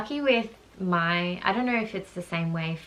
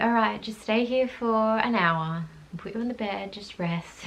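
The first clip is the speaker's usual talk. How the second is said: soothing nurse; 4 semitones higher than usual. Retold or imitated. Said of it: "she's like".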